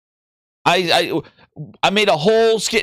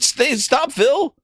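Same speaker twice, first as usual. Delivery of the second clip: mock pleading yell; 6 semitones higher, much slower than usual. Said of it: "You had people cry-, like".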